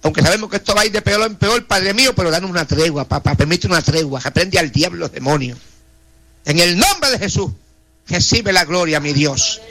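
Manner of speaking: earnest pleading prayer, voice rising and falling; fervent prayer. Acted. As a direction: intercede for each name before God. Prayer for the police. (oración ferviente e implorante)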